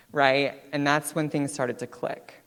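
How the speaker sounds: ordinary delivery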